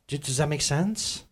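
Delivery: whispered aside to the crowd. Real, not acted. Pastor whispering a check to the congregation. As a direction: breathe the question, no voice. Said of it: "whispered check-in".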